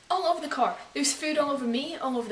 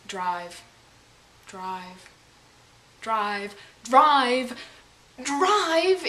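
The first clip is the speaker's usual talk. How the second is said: urging the driver more and more; building yell; 5 dB louder, much slower than usual. Retold or imitated. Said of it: "yelling it".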